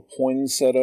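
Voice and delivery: poinsettia in three syllables, poyn-SET-uh; poinsettia pronounced "poyn-SET-uh"; poinsettia without first T. Shown as a demonstration. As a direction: say poinsettia with no T in poyn and a plain -uh ending. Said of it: "However you pronounce it".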